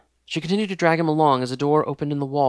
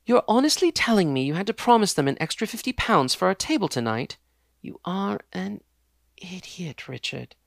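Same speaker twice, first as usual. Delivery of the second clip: higher, exasperated scolding; scolding fiancée; 6 semitones higher, 3 dB louder than usual. Acted. Fiancée scolds Richard over the table booking, exasperated. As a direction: belittle him with a haughty sneer.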